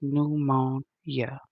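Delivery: "Pneumonia" slowly split into beats; counting syllables. Shown as a demonstration. Rechecking Alexa's four-syllable claim, "Pneumonia" slowly in beats. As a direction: test each syllable of "Pneumonia", taking it slow. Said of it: "She said it has four syllables".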